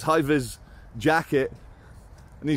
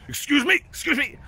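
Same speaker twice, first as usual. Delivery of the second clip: very high mock guard voice; hammed-up high Eastern European accent; 12 semitones higher than usual. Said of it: "And he goes".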